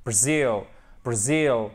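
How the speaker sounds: BRAZIL with a quick "bruh" and strong ZIL; stress on ZIL. Shown as a demonstration. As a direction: lean on the second syllable of "Brazil". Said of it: "c'est vraiment très marqué".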